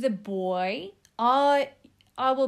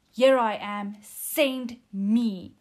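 louder, emphatic reading of send me; eager and declarative, a touch louder; exclamatory read; 6 dB louder, slower than usual. Shown as a demonstration. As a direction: read it like it ends in an exclamation mark. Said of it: "Ending his sentence with an exclamation mark".

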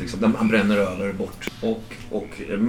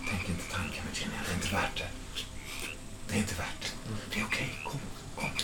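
near-whispered coaxing menace; hushed warning; 3 semitones lower, 14 dB quieter than usual. Acted. Kidnapper telling Virginia not to try it, hushed. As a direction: murmur it very softly, discouraging escape. Kidnapper warns against screaming.

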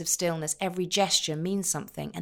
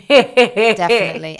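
laughing; 3 semitones higher, 15 dB louder than usual. Real, not acted. Laughing through the word.

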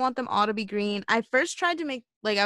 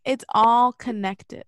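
slow, louder mock revelation; mock profound; 4 dB louder, much slower than usual. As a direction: drag it out like a big revelation. Mock conspiracy line.

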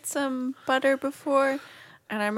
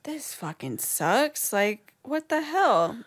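slow dismay; 2 semitones higher, much slower than usual. Retold or imitated. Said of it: "I was like".

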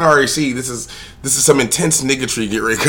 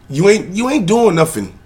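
ranting; 7 semitones higher than usual. Real, not acted. Escalating rant at man.

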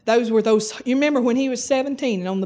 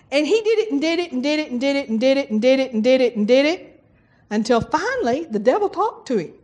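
usual speaking voice

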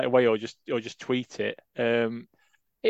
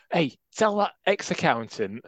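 lightly put-on Barnsley accent, a touch higher; 5 semitones higher than usual. Mimicking the club passing news on, Barnsley accent. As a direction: toss off a quick Barnsley accent impression. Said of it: "I've done a, like, a Barnsley accent".

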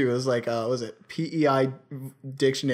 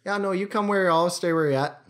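imitated Eastern Canadian chatter, higher opening; Eastern saying; 5 semitones higher than usual. Comic quoting an out-east goodbye, lightly imitated Eastern accent. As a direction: run it together like an easterner. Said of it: "it's a more of an Eastern saying".

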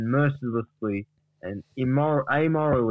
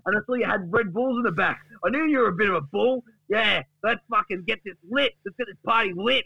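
high, excited mock rant; hyped-up Duck; 8 semitones higher than usual. Duck tells Gary about the fridge, hyped-up rant. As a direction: rattle it off high and fired up. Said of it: "Duck opens the door and says".

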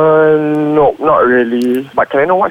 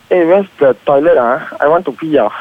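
Manglish. Shown as a demonstration. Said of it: "what about this one".

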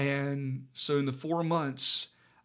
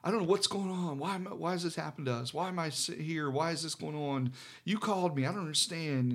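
higher-pitched, hurried plaintive complaining; mock whining; 3 semitones higher than usual. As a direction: reel off mild whiny questions to God. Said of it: "I was whining about".

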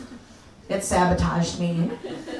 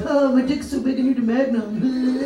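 mocking bragging guys; 4 semitones higher than usual. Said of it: "They're like".

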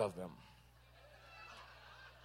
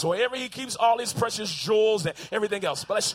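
bright, eager yes-man voice, raised and fast; eager servant accepting; 5 dB louder than usual. Retold or imitated. Servant to the king, eagerly accepting his task. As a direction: play the thrilled servant who got the job.

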